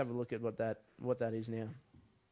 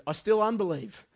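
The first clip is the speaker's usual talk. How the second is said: pleading cry; 6 semitones higher, 7 dB louder than usual. Retold or imitated. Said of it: "realizes his humanity and says".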